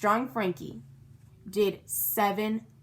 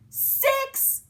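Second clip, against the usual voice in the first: shouted. A narrator's reading. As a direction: shout the count. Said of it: "we shouted".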